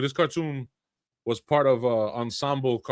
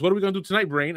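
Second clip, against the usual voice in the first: higher, lightly voiced Pinky asking; Pinky's line; 8 semitones higher, much faster than usual. Host quotes Pinky's catchphrase to co-hosts, lightly higher voice. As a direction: ask it like dopey Pinky, slightly higher. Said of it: "Pinky would always ask".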